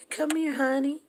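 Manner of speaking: put-on high, loud sing-song call of an old grandma; high, loud mock grandma calling honey; grandma calling sweetly. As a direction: call the kids over like a doting grandma. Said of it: "She was".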